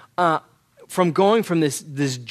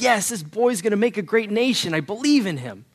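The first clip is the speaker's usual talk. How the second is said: higher-pitched, excited proud declaration; retold elation, pitched up; ecstatic; 5 semitones higher than usual. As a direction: voice an overjoyed father declaring his belief. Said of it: "And he's ecstatic".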